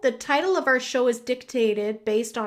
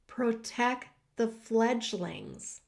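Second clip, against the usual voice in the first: slow, soft and weighty; hushed title repeat; 6 dB quieter, slower than usual. Real, not acted. Host repeating the title that stopped her, hushed and slow. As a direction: let the title sink in, softly.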